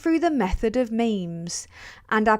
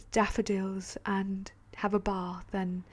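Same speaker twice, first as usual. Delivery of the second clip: mock whisper; 2 semitones lower, 8 dB quieter than usual. Mocking Diana calm routine.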